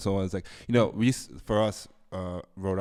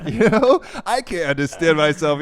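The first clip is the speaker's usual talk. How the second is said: mock disbelief; 8 semitones higher, 10 dB louder than usual. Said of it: "mock disbelief".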